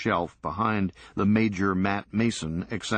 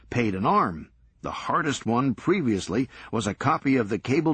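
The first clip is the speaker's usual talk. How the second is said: higher, eager bragging about the hunt; a fanatic sharing his prized find; proud collector Serge; 4 semitones higher than usual. Acted. Serge boasting about his search.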